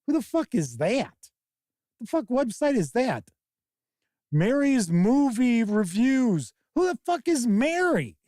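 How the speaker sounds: exasperated viewer ranting at the screen; incredulous rant. Retold or imitated. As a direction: scoff at an unknown critic in disbelief. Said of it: "and you're like".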